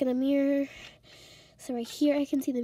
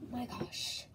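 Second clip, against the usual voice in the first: panicked whisper; 3 semitones lower, 10 dB quieter than usual. Acted. Panicked aside, hiding from neighbor.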